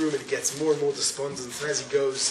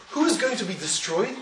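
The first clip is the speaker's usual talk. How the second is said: forceful preaching; 11 semitones higher than usual. Real, not acted. Preacher driving home the point.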